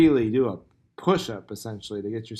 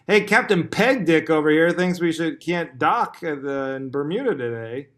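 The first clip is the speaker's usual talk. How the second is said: mocking heckler; 3 semitones higher, 4 dB louder than usual.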